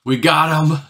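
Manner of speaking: mock triumphant sneer through a wide grin; evil gloating. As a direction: imitate villains gloating, pitch climbing. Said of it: "this evil, shit-eating grin smile".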